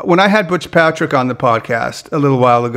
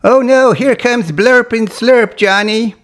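high, slow cartoon sea-monster voice; Sigmund; 9 semitones higher, slower than usual. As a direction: draw out a high-pitched cry of dismay. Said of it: "there's my Sigmund".

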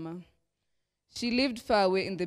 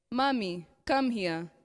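shrieking; 3 semitones higher, slower than usual. Acted. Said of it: "she shrieked".

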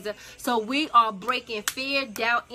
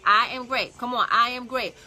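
I am great declared louder, stress on I; emphatic affirmation; 5 dB louder than usual. Shown as a demonstration. Host leading viewers in affirmation, louder and proclaiming. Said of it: "I need you to type in".

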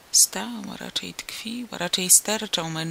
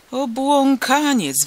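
high, loud, drawn-out shriek from a crowd; yelling; 7 semitones higher, 7 dB louder, much slower than usual. A narrator's reading. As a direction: yell the insult, stretching it out high. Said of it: "wrzeszczeli inni". (przeciągły, wysoki wrzask)

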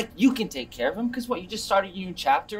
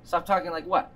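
fake Italian accent; 3 semitones lower than usual. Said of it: "Not stupid fake accent".

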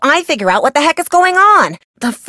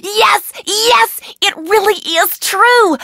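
high excited laugh into a joyful yes; elated whoop; 10 semitones higher, much slower than usual. Real, not acted. Scientist celebrating her discovery with Nancy, elated. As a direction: burst out with delight, much higher.

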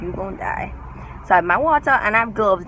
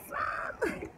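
breathless high laughing plea; 12 semitones higher, 13 dB quieter, slower than usual. Retold or imitated. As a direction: squeak it out through laughter. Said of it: "I'm just like".

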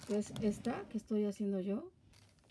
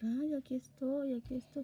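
soothing a dog; 3 semitones higher than usual. Retold or imitated. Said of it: "le vuelvo a hacer".

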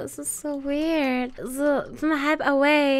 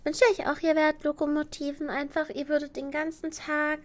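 cute anime streamer; 4 semitones higher than usual. Acted. Sweet thanks to chat.

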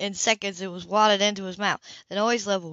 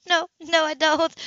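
amused Sybil; 8 semitones higher, 4 dB louder than usual. Acted. Sybil answers Will, amused.

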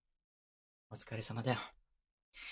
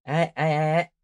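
louder, giving in through laughter; laughing yes yes; 2 semitones higher, 7 dB louder than usual. Acted. Boyfriend laughing as he gives in to his clingy partner. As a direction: laugh out the yeses, conceding.

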